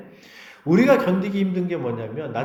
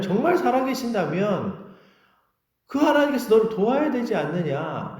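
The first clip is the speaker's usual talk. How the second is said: raised, scornful challenge; acted taunt with swooping pitch; mocking challenge; 7 semitones higher than usual. Scoffers challenging whether God will help you, mocking challenge. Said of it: "이렇게 조롱했거든요".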